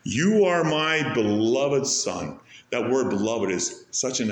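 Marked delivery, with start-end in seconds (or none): 0.0-2.4 tender quote. Acted. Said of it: "He speaks directly to his Son".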